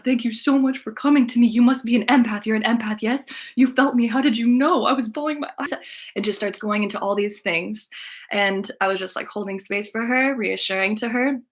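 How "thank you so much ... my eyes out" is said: high, loud, overwhelmed mock-tearful voice; imitated bawling gratitude. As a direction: gush as if bawling. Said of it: "she just started bawling".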